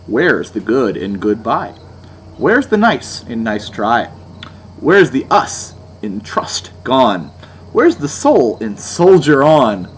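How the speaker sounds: slow, overly earnest reading of the lyrics; slow, mockingly earnest lyric reading; mock sappy recital. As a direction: recite them slowly with fake sincerity. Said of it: "Here are the actual lyrics".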